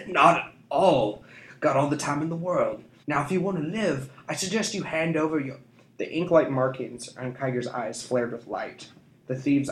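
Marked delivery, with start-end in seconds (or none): 0.1-5.6 smug, drawling scoundrel; sly thief. A narrator's reading. Thief mocking the street urchins, smug. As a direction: taunt the children lazily.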